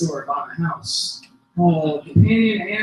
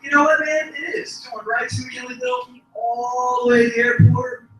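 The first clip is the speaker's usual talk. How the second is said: friendly bus driver; 4 semitones higher than usual. Retold or imitated. Friendly driver answers nervous passenger.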